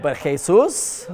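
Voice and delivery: slow, rising, unbelieving; incredulous. Real, not acted. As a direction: drag it out in disbelief. Disbelief at the name.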